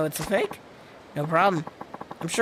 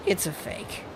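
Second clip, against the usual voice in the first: whispered confession; 6 dB quieter than usual. Acted.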